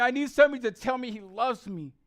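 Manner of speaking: full-voiced preacher's plea; fervent, insistent plea; impassioned plea. Real, not acted. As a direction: cry it out to the congregation. Plea first cried out, then softened.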